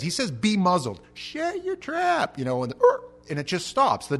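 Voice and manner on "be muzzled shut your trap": louder command rising into a slow, high yell; fed-up command. Acted. Jesus silencing the storm like a barking dog, acted yell. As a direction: stretch it out as an exasperated yell. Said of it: "That's basically what he says".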